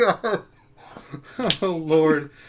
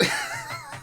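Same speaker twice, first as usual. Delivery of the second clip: mock wookiee roar; 8 dB quieter than usual. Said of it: "sounds like a dying elephant".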